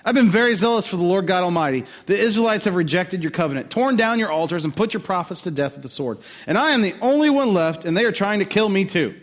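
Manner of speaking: lightly voiced Elijah pleading his case; Elijah complaining. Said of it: "this is Elijah speaking".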